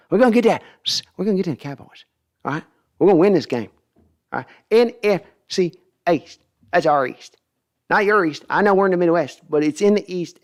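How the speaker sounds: excited owner scolding his son; fired-up Jerry Jones yelling at Steven; Jerry Jones impression. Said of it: "when he gets into that wispy edge".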